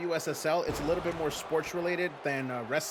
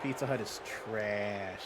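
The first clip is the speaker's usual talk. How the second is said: quiet; 5 semitones lower, 6 dB quieter, much slower than usual. Shown as a demonstration. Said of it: "repeats the verdict twice".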